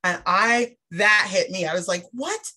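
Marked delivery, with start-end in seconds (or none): 2.1-2.5 shocked what. Retold or imitated. Shocked at swollen infected ears.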